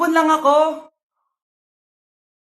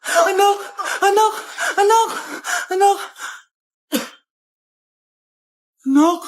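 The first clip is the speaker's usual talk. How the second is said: panicked; 2 semitones higher than usual. Acted. Panic at choking son.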